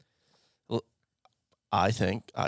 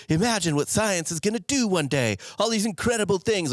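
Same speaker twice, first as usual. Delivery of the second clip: awed excitement; 10 semitones higher than usual. Retold or imitated. Mock wonder at future science.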